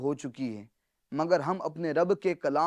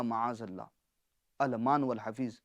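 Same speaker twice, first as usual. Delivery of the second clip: hushed dismay; 5 semitones lower, 8 dB quieter than usual. Real, not acted. Horrified at the distorted meaning.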